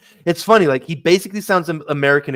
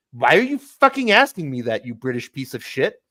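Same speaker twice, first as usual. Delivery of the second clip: mock indignation. Imagined rant at British questioner.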